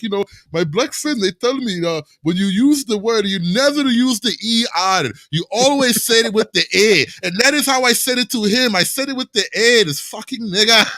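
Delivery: imitating a thick Punjabi Indian accent. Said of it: "picturing the guy with a really thick Indian Punjab accent".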